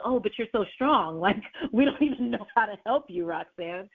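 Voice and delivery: lightly voiced shock at being asked for help; mock shocked response. People reacting to her asking for help, mildly shocked. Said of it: "the response is kinda like, it's shock".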